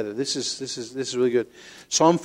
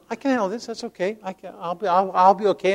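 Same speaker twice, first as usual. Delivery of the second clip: composed front; 4 semitones higher than usual. Acted. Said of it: "And I'm going".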